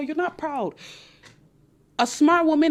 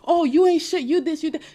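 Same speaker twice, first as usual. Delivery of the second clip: higher, louder mock rant; mock loud insult; 5 semitones higher, 4 dB louder than usual. Vlogger mocking an arguing woman, louder. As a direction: ham up the insults.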